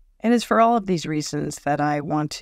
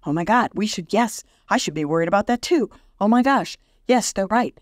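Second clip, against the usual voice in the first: higher, quick and breathless worry; mock panicked friend; 5 semitones higher, faster than usual. Imitating a friend catching your panic. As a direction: mimic someone spiraling into fear. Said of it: "they're like".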